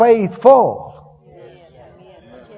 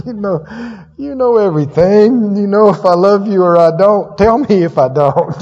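pleading Peter; 5 dB louder than usual. Retold or imitated. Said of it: "And he said".

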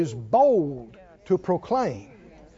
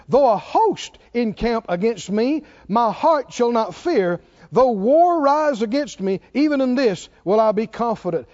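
measured, declaiming psalm reading; scripture reading; 3 semitones higher, 3 dB louder than usual. Acted. Reads psalm verse aloud.

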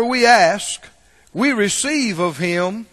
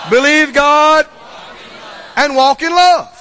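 loud, higher preacher's cry on believe God and walk in love; full-voiced shout of believe God and walk in love; shouted refrain; 5 semitones higher, 4 dB louder than usual. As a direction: belt the refrain to the rafters.

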